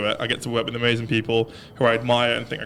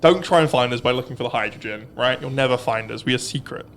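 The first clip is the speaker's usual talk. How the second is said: creepy voice. Acted. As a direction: talk like a shadowy secret agent. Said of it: "That was a really creepy voice".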